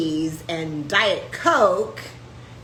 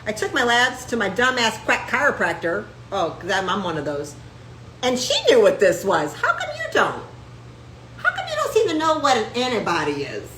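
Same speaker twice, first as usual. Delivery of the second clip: mock confrontation; 3 semitones higher than usual. Patient confronting a clueless doctor, mocking. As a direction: taunt the doctor, half laughing. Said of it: "you could say".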